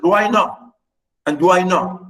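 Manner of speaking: lightly mocking retort, pitch lifted. Katerina mocking the daughter who asks, jeering. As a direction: throw the question back with a mild jeer. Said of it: "mocking her".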